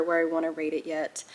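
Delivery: whispered aside. Real, not acted. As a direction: whisper it to the camera like a secret. Confiding aside to viewers.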